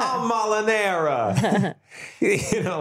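high put-on character voice; Molinara voice. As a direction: introduce yourself as a grand character, slowly. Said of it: "That's a fun character".

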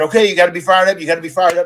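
mock coach revving up a wrestler; pumped-up pep talk. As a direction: fire him up before he walks out. Retold pep talk before match.

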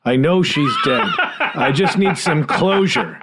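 lightly hammed-up plea for closure; mock grieving parent. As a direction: plead like a bereaved parent, half laughing. Acts bereaved parent pleading as joke.

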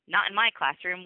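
a hint of a stern teacher; teacher waking class. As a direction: call out to wake sleepy kids.

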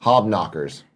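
deadpan British slang in an American accent. Shown as a demonstration. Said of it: "an American accent".

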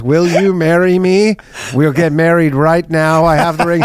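earnest mock proposal. Acted proposal in court.

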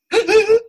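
high, loud hiccupping catch in the voice; voice catching after crying. Shown as a demonstration. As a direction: mimic the hitch a voice gets after a long cry. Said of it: "your voice goes".

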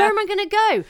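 loud, high-pitched lost wail; acted exasperation. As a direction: ask it in helpless mock despair. Retold exasperation while driving aimlessly.

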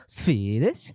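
slow, put-on Swedish accent; mock Swedish accent. Asked to give Swedish, slow mock Swedish accent. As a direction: draw it out in a would-be Swedish accent. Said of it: "give me Swedish".

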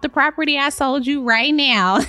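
put-on high, breezy gushing girl-talk; sassy realtor. Realtor bragging to her client, high and airy. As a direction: gush like a smug realtor.

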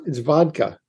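vodka said with a careful D, VOD-ka; practiced vodka. Shown as a demonstration. Guest shows the vodka pronunciation he practiced. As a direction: say vodka the way you trained yourself to. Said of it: "I practiced it".

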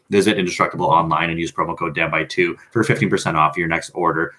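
lips smacking into the mic; smacky mouth noises up close. Real, not acted. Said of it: "I didn't mean to smack my lips right in your".

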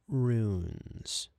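"runes" drawn out with falling tune; falling take. Shown as a demonstration. Voice actor trying the line different ways, "runes" falling. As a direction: let a long "runes" sink down. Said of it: "do that a couple different ways".

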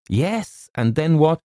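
high, exasperated prompting; impatient. A narrator's reading. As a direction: press for the rest with exasperation. James impatient with wailing housekeeper.

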